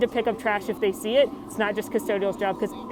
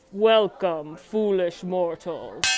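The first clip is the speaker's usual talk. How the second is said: slow, spooky welcome; ghost host voice; 4 dB louder, much slower than usual. Shown as a demonstration. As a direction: drag out foolish mortals like a ghost host. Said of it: "imitate the ghost hostess".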